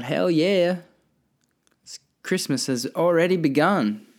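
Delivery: retold excitement. Retold thought on ecstasy.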